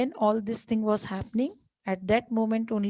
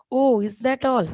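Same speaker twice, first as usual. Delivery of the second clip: whispered; 3 semitones higher, 6 dB louder than usual. Retold or imitated. Mother dismissive reply in story.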